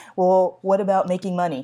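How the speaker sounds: ordinary delivery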